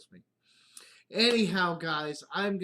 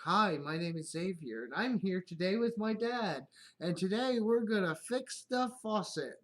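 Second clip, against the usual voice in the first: higher, bright YouTube intro; kid host voice; 5 semitones higher than usual. Retold or imitated. Son playing YouTuber with dad, higher host voice. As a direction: open it like a kid hosting a video. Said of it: "running through a video script".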